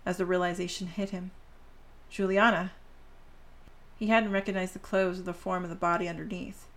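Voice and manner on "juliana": crying out her name in shock; anguished cry. Acted. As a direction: call out the name, stricken. Father recognizes dead daughter.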